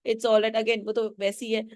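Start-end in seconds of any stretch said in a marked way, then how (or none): 0.1-0.6 mildly flustered repeated no; lightly acted nervous reassurance. Neighbour smoothing over the rudeness, a touch nervous. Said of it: "फिट्जजेराल्ड बोल रही nervously".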